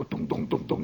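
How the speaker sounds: soft breathy dung dung, like tapping wood; drill tapping noise. Retold or imitated. Old boss demonstrating the tap test, soft breathy dung sounds. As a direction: mimic the boss testing wood softly. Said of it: "and he'd go".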